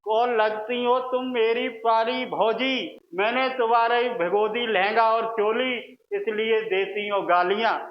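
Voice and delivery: playful flirtatious verse recitation; shayari recital. Acted. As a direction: recite a teasing couplet to sister-in-law. (भौजी को छेड़ती शायरी के अंदाज़ में)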